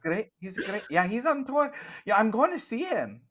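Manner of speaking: chirpy Scottish baker chatting; Scottish accent. Acted. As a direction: keep the Scottish shopkeeper going, high and chatty.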